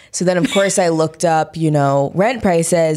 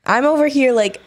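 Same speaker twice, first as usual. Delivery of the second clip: tipsy, slurring words; 2 semitones higher than usual. Real, not acted. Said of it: "I'm slurring my words".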